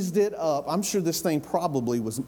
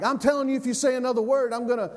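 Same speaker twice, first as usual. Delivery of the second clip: mock threat; 6 semitones higher, much faster than usual. David imagined as all talk, threatening.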